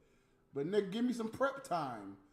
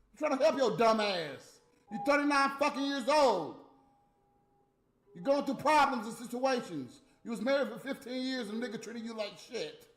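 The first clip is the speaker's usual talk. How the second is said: loud, raised-pitch telling-off; angry scolding; 4 semitones higher, 4 dB louder than usual. Real, not acted. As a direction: lay into them, loud and exasperated. Scolding Natalie for her repeated mistakes.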